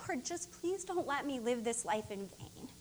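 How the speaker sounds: soft, pleading whisper-like prayer to the Lord; quietly beg, barely above a breath; hushed prayer. Retold or imitated. Minister recalling her prayer, hushed and pleading. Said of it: "I've just been going to the Lord like".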